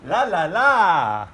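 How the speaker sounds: laughing. Real, not acted. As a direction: laugh while singing la la la. Laughing with toddler.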